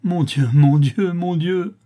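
slow, high, anguished supplication; deeply pleading. A narrator's reading. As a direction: beg heaven, rising with each cry. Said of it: "il s'écria d'une voix profondément suppliante".

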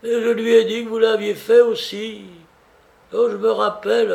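high, loud boasting; proud. A narrator's reading. Felipe boasts to the guest of what he told his sister, proudly. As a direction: announce it proudly, voice lifted. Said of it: "ajouta-t-il fièrement".

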